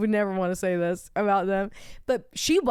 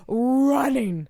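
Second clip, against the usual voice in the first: mock out-of-breath gasps into a louder word; panting from running; 4 semitones higher, 4 dB louder than usual. Kid recounting a race to the shade, panting. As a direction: act winded, then push the word out. Acts out running hard to claim spot.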